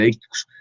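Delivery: "deícticos" stressed on the í; stress on accented í. Shown as a demonstration. Teacher shows students where the tilde falls, stress on í. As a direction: say "deícticos" with its accent on the second syllable, de-Í-cticos. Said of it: "mire que tiene tilde".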